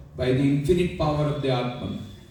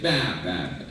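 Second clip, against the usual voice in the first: quiet, lower mock baa; timid bleat; 10 semitones lower, 4 dB quieter, much faster than usual. The small lion insisting it is a sheep, meek bleat. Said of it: "The small lion said".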